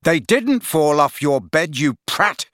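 high, heated explanation; exasperated. Acted. Friend explaining love potion, exasperated. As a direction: hammer the truth home, exasperated.

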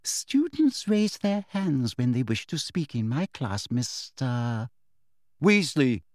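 lightly voiced prim teacher, falsely kind; sweet teacher voice. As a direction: talk down to her with syrupy politeness.

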